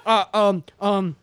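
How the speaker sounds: imitated nervous hesitation; stuttering bad liar. Friend mimicking Bobby caught lying, nervous stammer. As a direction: stall on each filler like a bad liar. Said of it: "he stutters like fucking crazy".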